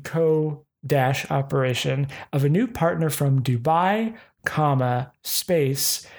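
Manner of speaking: spelling out every comma and space; reading punctuation aloud. Shown as a demonstration. Reading a scam email to viewers, pedantic and dictating. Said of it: "make sure you got that semantic bit".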